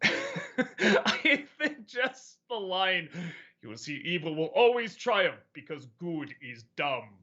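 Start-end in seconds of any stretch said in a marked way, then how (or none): 3.6-7.1 lightly voiced intimidating Dark Helmet; a mild menacing villain read; quoting Dark Helmet with a touch of menace; Dark Helmet impression. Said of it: "in that intimidating voice".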